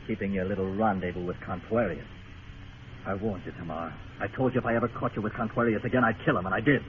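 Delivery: soft, cold menace to his woman; quiet menace. Acted. Gambler confronting Tamar over her meeting with Contuarius, soft cold menace.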